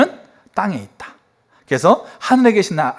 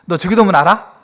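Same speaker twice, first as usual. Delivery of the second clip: louder, higher demanding question; testy pastor uncle; 4 semitones higher, 5 dB louder than usual. Retold or imitated. Uncle pastor quizzing his relatives on the Lord's Prayer, testy. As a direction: quiz them sharply, imitating a cross uncle. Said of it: "뭐 이렇게 막 화를 내시는 거죠".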